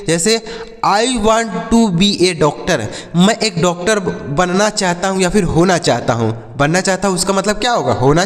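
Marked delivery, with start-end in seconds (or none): 0.8-2.8 slow model sentence. Shown as a demonstration. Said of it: "कैसे बोलेंगे".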